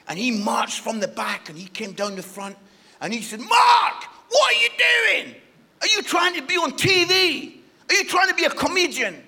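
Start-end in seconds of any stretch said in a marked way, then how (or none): 3.4-9.2 high, loud mock telling-off; scolding minister. Minister confronting the preacher after his first show, high-pitched scolding. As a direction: call him out in comic indignation.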